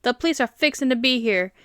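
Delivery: lightly southern "fixin'", final g dropped; southern accent. Shown as a demonstration. Texan showing the correct southern way, lightly southern accent. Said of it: "the southern way is".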